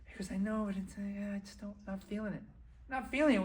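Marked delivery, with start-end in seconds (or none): 0.3-1.8 reluctant backing out. Acted. Partner backing out, acted. 1.9-2.4 soft, half-hearted excuse; reluctant backing out. Acted. Partner pulling out of the deal, soft reluctant excuse. 2.9-3.4 high-pitched disbelieving repeat; incredulous echo. Acted. Stung man echoing his partner's excuse, incredulous. Throws partner's words back.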